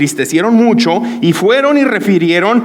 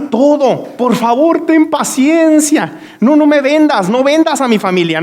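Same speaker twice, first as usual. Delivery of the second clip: pleading servant; 5 semitones higher than usual. Acted. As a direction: beg the master for mercy, voice pitched up. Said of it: "aquel siervo postrado le suplicaba".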